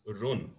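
"run" with a short Yorkshire oo; Yorkshire vowel. Retold or imitated. Teacher quoting Yorkshire commentator, "run" with short oo. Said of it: "therefore he says".

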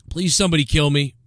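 mock hopeless plea, understated; lightly voiced despairing man; Opie. Secret thoughts of Opie, understated mock despair. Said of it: "this is like the secret thoughts".

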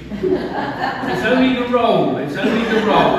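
laughing through the words; amused laughing aside. Real, not acted. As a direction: chuckle it out, amused. Laughing at boy thinking Martha.

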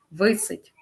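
"Висить" stressed on ВИ; stress on first syllable. Shown as a demonstration. Teacher drills correct stress, "Висить" stressed on ВИ. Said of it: "наголос на перший склад".

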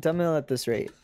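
put-on parent character in an Indian accent; measured Indian-accented objection. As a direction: scold lightly with an Indian accent. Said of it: "switching between, like, my American accent and my Indian accent".

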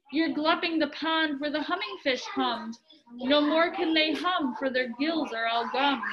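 lively storybook reading voice; reading to children. A narrator's reading. Parent reading Dr. Seuss aloud to a child, lively storybook voice. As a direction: read it out like a bedtime book to kids.

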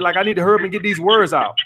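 quick, hurried mock of an excited talker; hurried, lightly mocking delivery; imitating excited rushing. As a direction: rush it as if racing to get the words out. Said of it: "You, you sound excited".

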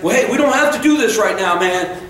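high-pitched, backpedalling bravado; mock bluster, pitched well up; trying to sound tough. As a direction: act tough while wriggling out of a fight. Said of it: "I'm still trying to be tough".

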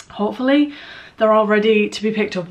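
slightly breathless talk; a little short of breath from nerves. Real, not acted. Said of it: "Why am I out of breath?".

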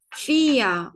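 "Fia" with F onset and final a; German pronunciation demo. Shown as a demonstration. Teacher reads vier for learners, "Fia" starting with F. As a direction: say "Fia" as FEE-a, long ee. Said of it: "F diye okuduk".

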